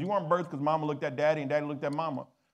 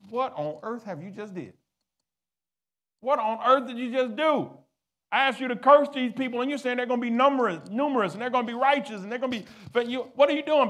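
angry king; 6 semitones higher than usual. Acted. King Balak rages at Balaam for blessing Israel, furious shouting. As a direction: play the enraged king, words tumbling out.

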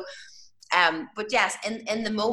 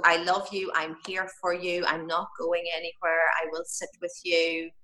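gentle reassurance; 3 semitones lower than usual. Shown as a demonstration. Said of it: "you know, so".

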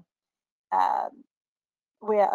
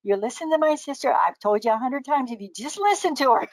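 mildly higher, emphatic told-you-so; imitated scolding wife; 4 semitones higher than usual. Wife telling her husband to heed her sister, mock scolding. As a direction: lightly act out a wife lecturing. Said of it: "That's his, his wife telling".

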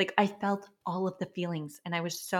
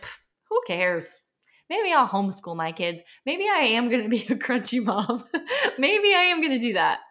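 laughing it off, rising higher; carefree, laughing; 3 semitones higher, 3 dB louder than usual. Retold or imitated. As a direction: toss the worry away with a laugh. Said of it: "in that mood of just".

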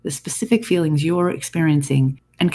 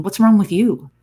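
higher and louder angry retort; mock yelling back; 4 semitones higher, 4 dB louder than usual. Spouse yelling back at the husband, raised and angry. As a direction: fire the question back like a spouse snapping in return. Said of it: "react to the situation is to yell back".

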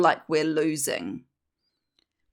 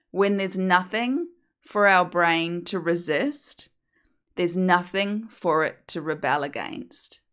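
slower; slower than usual. Shown as a demonstration. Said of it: "I'm gonna repeat that slower".

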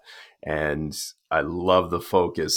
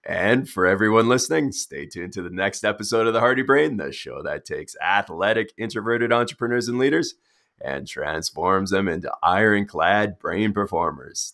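polished host sign-off; podcast outro; 2 semitones higher than usual. Acted. Host signing off to everyone listening, podcast outro. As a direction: wrap up the show like an announcer.

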